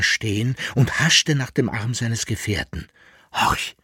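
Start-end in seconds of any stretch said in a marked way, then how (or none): 3.3-3.8 whispering. Acted. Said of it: "flüsterte er".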